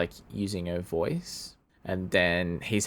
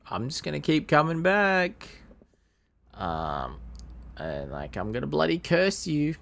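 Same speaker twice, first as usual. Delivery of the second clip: higher, a hint of a cackling threat; a touch of leprechaun menace; lightly voiced leprechaun; 8 semitones higher than usual.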